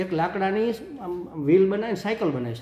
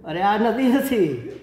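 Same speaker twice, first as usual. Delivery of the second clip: laughing gently; 3 semitones higher, 4 dB louder, much slower than usual. Retold or imitated. Grandfather laughs at child's mistake.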